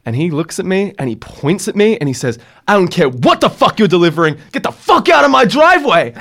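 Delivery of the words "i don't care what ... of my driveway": mock furious neighbour, pitch shooting higher on the second line; angry yell. Angry man ordering the pizza driver off his driveway, yelling. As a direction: bark it out like an enraged homeowner.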